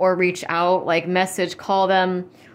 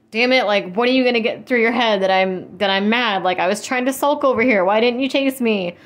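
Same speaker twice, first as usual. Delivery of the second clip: mock annoyed; 3 semitones higher, 4 dB louder than usual. Voicing the sulking person's complaint.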